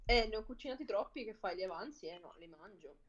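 chewing while talking; talking through a mouthful of fennel; mouth full. Real, not acted. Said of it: "stai ancora mangiando i finocchietti".

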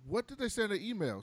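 quick, high, puzzled asking; quick high baffled query; baffled question. Retold or imitated. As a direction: ask it fast and high, genuinely baffled. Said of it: "And I'm like".

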